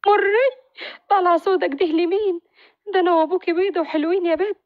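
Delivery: mock-scold the baby girl lovingly; teasing mother. Mother teases her newborn daughter, pitched high and quick.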